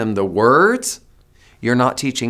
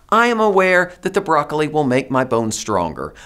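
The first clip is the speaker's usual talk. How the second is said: voicing a toddler. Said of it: "That toddler wants to say".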